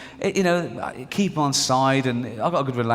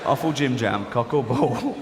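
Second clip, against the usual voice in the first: laughing; 3 semitones lower than usual. Acted. Repeats game line laughing.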